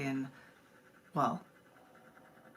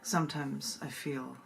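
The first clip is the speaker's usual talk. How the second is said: slow, intimate recital with long pauses; poem reading; slower than usual. Acted. Reads the poem Twin.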